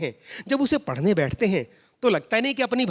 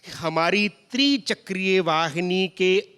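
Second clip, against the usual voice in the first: formal pure hindi. Retold or imitated. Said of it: "शुद्ध हिंदी में मैंने बताया".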